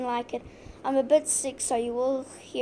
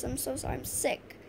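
much softer, whispered sick apology; sick, fading apology; 8 dB quieter than usual. Real, not acted. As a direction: fade into a weak whisper, apologizing. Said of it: "so my voice sounds a bit weird".

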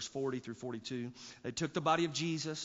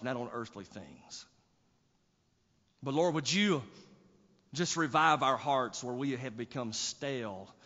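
prayer; 4 dB louder than usual. Acted. Closing prayer.

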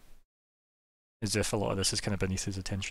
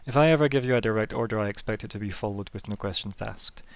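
a hint of a measured, authoritative officer; lightly voiced commander; 2 semitones higher than usual. Commander setting terms to a new recruit, lightly authoritative. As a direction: lay down terms as a superior, lightly in character.

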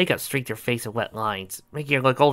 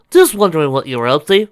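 innocent; 5 semitones higher, 10 dB louder than usual. Acted. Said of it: "she said innocently".

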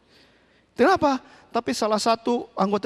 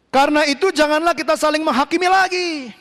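higher, emphatic scripture declaration; preaching; 6 semitones higher, 3 dB louder than usual. Real, not acted. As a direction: proclaim the verse to the congregation. (berkhotbah dengan tegas)

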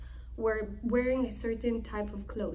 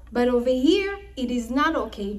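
pointed jab; 7 dB louder than usual. Acted. Lavan pinching Yaakov.

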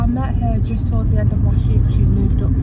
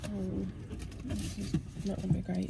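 ordinary delivery

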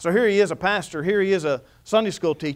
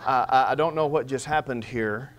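bewildered laugh; 5 semitones lower, 5 dB quieter than usual. Retold or imitated. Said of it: "He said".

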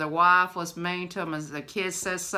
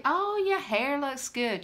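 friendly compliment; 6 semitones higher, slower than usual. Shown as a demonstration. Models a compliment to cheer someone.

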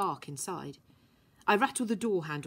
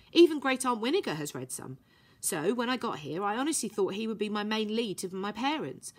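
a hint of a young girl, earnest; lightly voiced girl; 3 semitones higher than usual. Violet explaining her past to Herbie, lightly voiced girl. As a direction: confess it plainly, a little higher.

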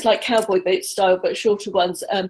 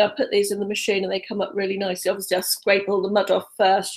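rapid nervous talk; faster than usual. Real, not acted. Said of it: "still talking very rapidly".

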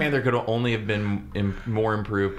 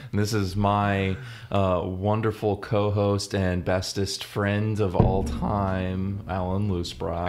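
sarcastic; 3 semitones lower, slower than usual. Real, not acted. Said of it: "don't say it so sarcastically".

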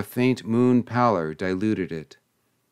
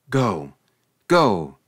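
cry out; 3 dB louder than usual. A narrator's reading. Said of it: "Rayford cried out".

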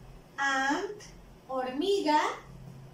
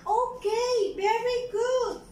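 teacher praise; 5 semitones higher than usual. Real, not acted. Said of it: "teacher praising class".

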